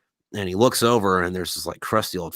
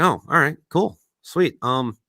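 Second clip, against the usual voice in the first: put-on eager young pirate; 4 semitones higher, 5 dB louder than usual. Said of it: "the young pirate's like".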